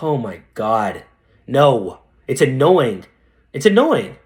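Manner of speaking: exasperated groan of refusal, drawn-out start; acted annoyance. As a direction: play a dentist fed up with being asked. Acting a dentist who resents helping.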